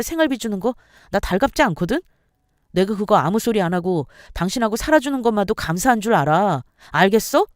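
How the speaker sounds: contemptuous husband venting at his wife; spewing resentment. Acted. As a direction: pour out pent-up grievances. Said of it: "속마음을 토해내는 걸".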